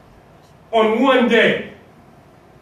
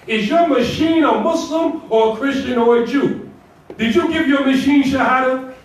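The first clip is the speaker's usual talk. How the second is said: sarcastic questioning; 4 semitones higher than usual. Acted. Mocking questions to the congregation.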